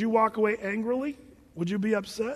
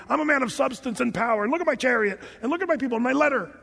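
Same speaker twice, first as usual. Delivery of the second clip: higher, indignant self-important listing; mock angry boasting; 5 semitones higher, faster than usual. Preacher voicing Naaman showing off his status, mock indignation. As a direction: play the offended important man. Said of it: "he goes away angry".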